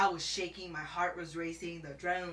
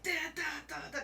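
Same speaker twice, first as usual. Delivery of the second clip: raised-pitch honking rhythm; imitated alarm honks; 7 semitones higher, much faster than usual. Showing how she honked the horn, alarm-like. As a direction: beep it out like a car alarm. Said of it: "make it sound like an alarm".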